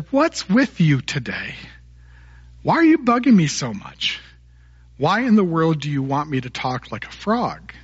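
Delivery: mildly acted exasperation; a touch of fed-up grandfather; exasperated grandpa. Grandpa asking the pestering boy what he wants, mildly exasperated.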